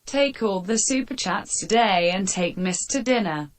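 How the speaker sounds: text-to-speech reading; synthetic donation reader; robot voice read. Acted. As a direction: read it out like a computer voice. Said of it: "Friday will read it out, out loud, a robot voice".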